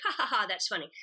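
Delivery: mock reading laugh, still fresh; amused read. Shown as a demonstration. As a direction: read it as if it is funny the first time. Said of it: "first you read it in the script".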